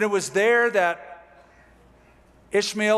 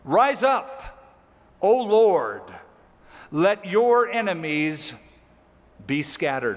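battle cry; slower than usual. Acted. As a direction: shout it out like a war cry to heaven. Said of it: "battle cry".

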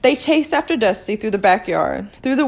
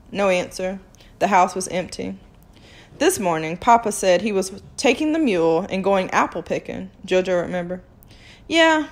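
steady read-aloud storytelling; story narration. Acted. Teacher reading a novel to her students, storytelling. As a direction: read the chapter to the class.

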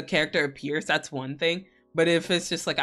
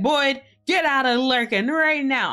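mock scolding; 8 semitones higher, 5 dB louder than usual. Acted call-out of a lurker.

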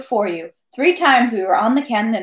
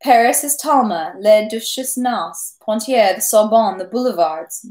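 proud of Paris; 2 semitones higher than usual. Acted. Captain boasting of Paris to Pierre, proudly excited. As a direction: sing Paris's praises.

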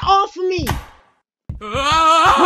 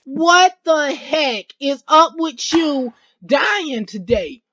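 higher, slow teasing voice for the pesky guy; mocking the annoying teammate; 3 semitones higher, slower than usual. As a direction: mimic the guy nagging in his ear. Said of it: "He was all up in my ears talking about some".

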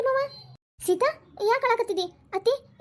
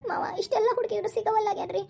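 tearful worry. Acted. Tearful over the missing child.

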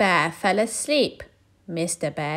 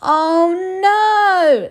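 higher, louder fed-up groan; weary groan; 12 semitones higher, 9 dB louder than usual. Acted. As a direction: groan like a worn-out bear. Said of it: "said Mister Bear".

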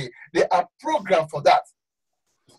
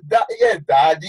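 preacher mocks a fawning member answering the pastor; mock eager congregant; 4 semitones lower than usual. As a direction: mimic a flattered churchgoer agreeing. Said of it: "And I say".

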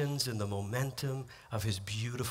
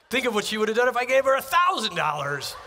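loud joking punchline; 9 semitones higher, 7 dB louder, faster than usual. Real, not acted.

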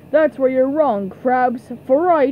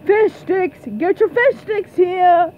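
vendor's call; 3 semitones higher than usual. Acted. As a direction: call out your wares to the stands. Vendor calling out to the crowd.

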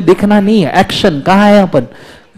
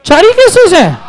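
laughing; 10 semitones higher, 3 dB louder than usual. Real, not acted. Teacher amused at class question.

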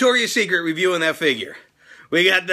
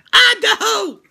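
much higher, louder yelled hometown call; mock figure shout; 13 semitones higher, 5 dB louder, slower than usual. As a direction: shout it out like a wrestler hyping the crowd. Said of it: "I can pull her out and be like".

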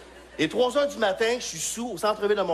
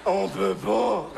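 mock clerk voice; much slower than usual. Mocking the clerk slowly.

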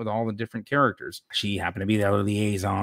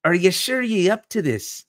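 put-on high, lilting Scottish accent; 8 semitones higher than usual. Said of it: "she has the Scottish accent".

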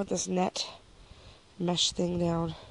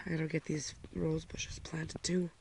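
whispered aside; 6 dB quieter than usual. Real, not acted. Quiet aside to herself.

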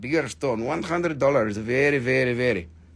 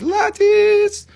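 a loud yelp, much higher; sudden yell; 7 dB louder than usual. Retold or imitated. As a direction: burst out with the word as if it jumps at you. Lattice seen when closing eyes.

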